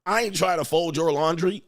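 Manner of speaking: hammed-up indignant woman refusing; a mock offended woman; mock angry woman. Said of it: "She was like".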